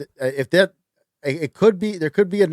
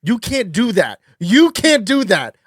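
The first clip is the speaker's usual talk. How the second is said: protesting; 5 semitones higher, 4 dB louder, much slower than usual. Real, not acted. Scolding a friend, getting louder.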